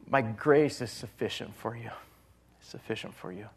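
soft, gentle voice of Christ; gentle reassurance; gently. Acted. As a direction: speak tenderly and softly, reassuring. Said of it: "And Christ so gently just says".

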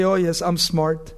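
low, slow, self-satisfied voice; self-important mock boast; mock smugness. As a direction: imitate a know-it-all, drawn out. Mocks self-important smart people.

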